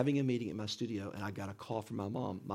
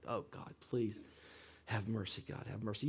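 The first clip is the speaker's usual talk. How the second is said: retold prayer; 8 dB quieter than usual. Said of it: "I'm praying and going".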